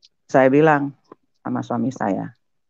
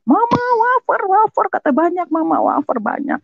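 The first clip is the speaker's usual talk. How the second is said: put-on very high excited child's voice; anak berteriak. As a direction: call out to Mama like a thrilled kid. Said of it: "anak saya teriak". (teriakan girang suara anak)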